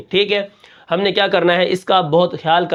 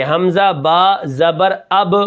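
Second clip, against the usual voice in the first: 1 slow spelling; much slower than usual. Shown as a demonstration. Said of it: "پھر اس کے پیچھے والی زبر کو ہم پڑھیں گے".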